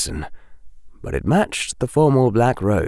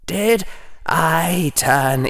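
inner thought voice; 7 semitones higher, slower than usual. Acted.

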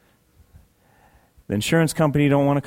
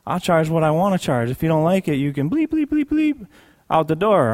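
rude clerk; 5 semitones higher than usual. Retold or imitated. Clerk voiced rudely, bleeped.

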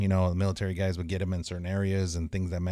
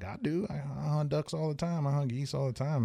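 insistent; 7 semitones higher than usual. Retold or imitated. His own defiant reply retold.

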